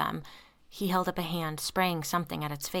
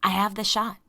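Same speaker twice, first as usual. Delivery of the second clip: loud insistent; insisting; 3 semitones higher, 6 dB louder than usual. A narrator's reading. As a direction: push the point louder. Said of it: "Andy insisted".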